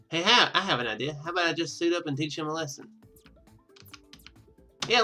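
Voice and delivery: usual speaking voice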